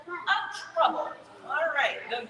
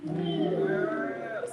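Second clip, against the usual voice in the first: mock moo; 8 semitones higher than usual. Shown as a demonstration. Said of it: "A cow says what?".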